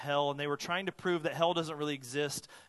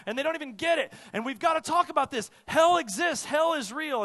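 much higher and louder, fiery preacher shout; shouting that hell is real, much higher and louder; James MacDonald yelling; 8 semitones higher, 6 dB louder than usual. Retold or imitated. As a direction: yell it like a brash pastor pounding the pulpit. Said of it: "likes to yell a lot".

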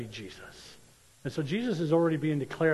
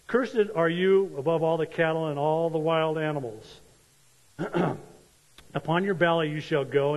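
raised, measured reading of the verses; scripture reading; 4 dB louder than usual. Acted. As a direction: read the curse with weight. Reads Genesis aloud.

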